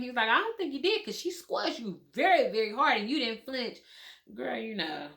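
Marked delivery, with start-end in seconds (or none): 0.3-3.8 lightly voiced doctor, pitched higher; imitating the doctor. Doctor tells the numb patient she didn't flinch, higher. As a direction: gently tell her she felt nothing.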